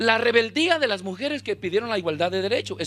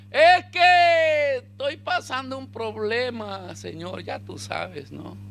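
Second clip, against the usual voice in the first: sheepish excuse; 4 semitones higher, much slower than usual. Acted. Hidden Adán answers God's question, sheepish and trailing away. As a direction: stall with a long excuse, losing volume.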